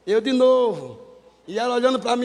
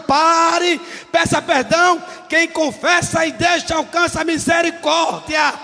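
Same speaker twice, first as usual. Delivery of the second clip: fiery preaching; 3 semitones higher than usual. Acted. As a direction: preach it out to the whole church. Preaching to the congregation.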